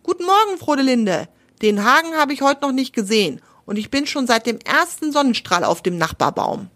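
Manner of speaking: high, bright little bird voice; chirpy woodpecker. Acted. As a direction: greet her like a cheery woodpecker. Buntspecht Dieter spricht. (Buntspecht grüßt fröhlich, höher)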